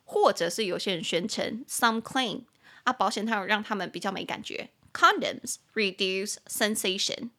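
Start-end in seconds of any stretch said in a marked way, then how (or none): 4.9-7.3 "Condoms reduce sensation" said very slowly; slow model sentence. Shown as a demonstration. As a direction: model it for learners. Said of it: "repeats sentence slowly".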